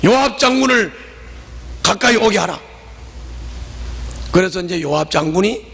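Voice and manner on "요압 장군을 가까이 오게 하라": shouted demand. Acted. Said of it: "소리를 질렀단 말이지".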